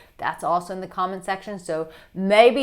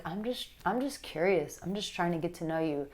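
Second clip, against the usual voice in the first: sensual, curious; 7 dB quieter than usual. Shown as a demonstration. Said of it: "that sensual".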